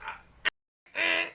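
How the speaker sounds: high, loud acted "ah"; startled cry. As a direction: cry out as if hit by smoke. Reacting to smoke on opening oven.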